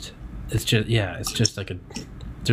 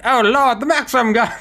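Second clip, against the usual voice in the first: laughing; 5 dB louder than usual. Real, not acted. Laughing excited outburst.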